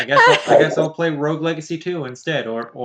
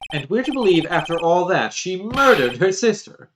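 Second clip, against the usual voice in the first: louder indignant prosecutor; dramatic indignation; 5 dB louder than usual. Acted. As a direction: build to scoffing Preposterous.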